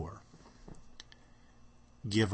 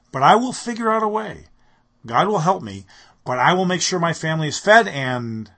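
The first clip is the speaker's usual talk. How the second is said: loud, high, self-assured declaration; confident boast; 8 semitones higher, 12 dB louder than usual. Pretend. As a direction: proclaim your own strength boldly. Boasting self-reliant resolve.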